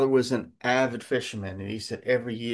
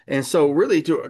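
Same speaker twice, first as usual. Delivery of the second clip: higher, louder pulpit build; preaching; 4 semitones higher, 6 dB louder than usual. Acted. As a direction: launch the point with force. Sermon point begins, raised.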